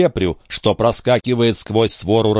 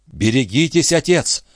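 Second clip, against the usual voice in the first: trembling voice; 4 semitones higher than usual. Acted. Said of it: "крикнул молодой человек дрогнувшим голосом".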